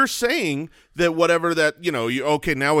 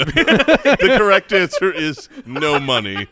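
laughing; slower than usual. Real, not acted. Joking answer after laughing.

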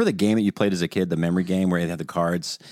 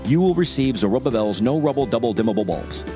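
upbeat radio ad voice; ad read. Shown as a demonstration. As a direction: sell it like a commercial announcer. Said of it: "I'm just gonna do a dry read here".

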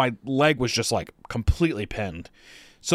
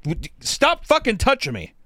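mock angry yell; 11 semitones higher, 3 dB louder than usual. Yelling at helpers.

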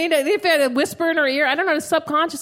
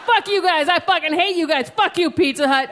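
mock-furious rant, slightly raised; retold yelling; 3 semitones higher than usual. Customer still yelling at the woman on the line, retold yelling. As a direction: re-enact a phone tirade without full volume. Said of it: "as I'm yelling at her".

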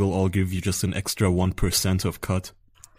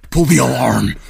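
alarm call; 3 semitones higher, 8 dB louder than usual. Acted. Guard raising alarm.

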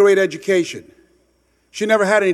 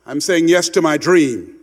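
firm declaration. Shown as a demonstration. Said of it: "Say yes".

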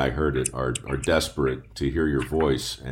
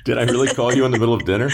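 surprised; 7 semitones higher, 5 dB louder, much faster than usual. Real, not acted. Mock shock at calling.

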